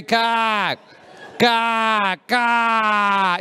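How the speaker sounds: mock-angry name call, drawn out; getting angry. Barista calling an absent customer, getting angry. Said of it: "she's getting angry".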